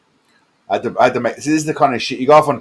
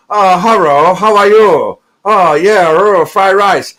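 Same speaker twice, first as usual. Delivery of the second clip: mock Asian voice; 4 semitones higher, 3 dB louder, slower than usual. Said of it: "he doesn't start going".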